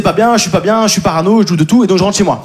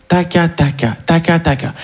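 whispered taca; 3 semitones lower, slower than usual. Shown as a demonstration. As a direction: whisper taca taca under your breath. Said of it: "mais en chuchotant". (taca taca chuchoté doucement)

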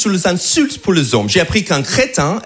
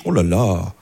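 mocking friends; 13 semitones lower than usual. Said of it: "tout le monde me dit".

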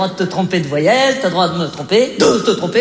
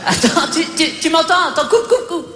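much higher, fast, laughing through bad line; high strained phone voice; 7 semitones higher than usual. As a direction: pitch up as the line cuts out. Phone call breaking up, shouting. (voix aiguë et pressée au téléphone)

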